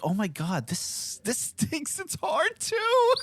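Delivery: high, laughing through the complaint; laughing mock lament. Dad retelling the baby stage, laughing high. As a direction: giggle the complaint out. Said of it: "I was like".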